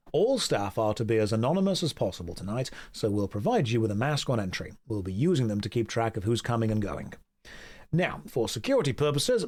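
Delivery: stern low-voiced head butler; low butler host voice. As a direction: lay down the party rules, low and formal. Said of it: "I'm gonna do the voices for every character".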